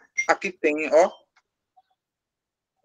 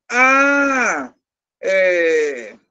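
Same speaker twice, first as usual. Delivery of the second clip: acted word-searching. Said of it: "Aí vou dizer como para o, o, o meu interlocutor".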